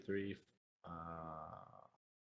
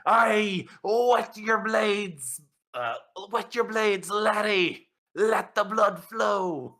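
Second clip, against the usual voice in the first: big booming call, higher and slow; 11 semitones higher, 5 dB louder, slower than usual. Acted. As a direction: boom it down from above. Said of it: "you hear a booming voice".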